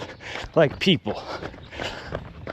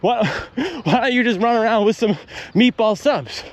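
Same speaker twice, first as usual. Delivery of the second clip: higher, pleading owner calling his friend back; mock exasperated dog owner; 7 semitones higher than usual. A pretend owner calls his friend Freddy back from chasing runners, mock exasperated and higher. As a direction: whine it like a fed-up owner defending his pet. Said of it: "And I'd say".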